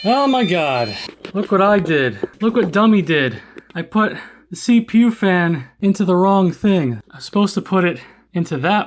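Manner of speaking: high, loud flustered rush; panicked excitement. Real, not acted. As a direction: blurt it out, alarmed at yourself. Realises mistake, self-mocking.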